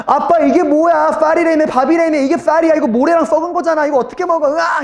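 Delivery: put-on high, loud child's whine; wailing children. Children complaining to dad about rotten rice, wailing. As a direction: wail in protest like a cheated kid.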